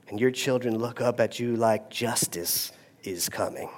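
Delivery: hushed, breathless whisper. Acted. Pastor to congregation, describing the hush in a whisper. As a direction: whisper it like the room froze. Hushed punchline after the yell.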